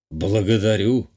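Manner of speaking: slow, a touch lost; slightly bewildered. A narrator's reading. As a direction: give thanks slowly, slightly at a loss. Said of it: "чуть растерянно произнёс Михай". (чуть растерянно, медленно)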